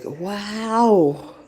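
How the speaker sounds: admiring cheer. Acted. Admiring another woman's authenticity.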